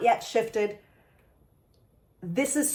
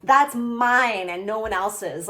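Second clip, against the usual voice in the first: proud claim; 5 dB louder, slower than usual. Retold or imitated. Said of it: "He's like".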